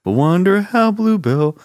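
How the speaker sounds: slow ad announcer read; commercial voice. Retold or imitated. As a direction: read it like an old TV ad, slowly. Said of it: "Remember that one?".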